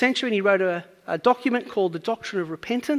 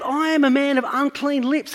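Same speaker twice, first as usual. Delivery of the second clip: a raised, higher cry of dismay; Isaiah crying out; 5 semitones higher, 4 dB louder than usual. Retold or imitated. Isaiah before God's majesty, raised anguished cry. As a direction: call it out as if overwhelmed before God. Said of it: "he yells out".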